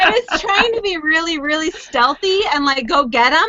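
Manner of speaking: giggling through the words; laughing apology. Real, not acted. Laughing apology after noisy interruption.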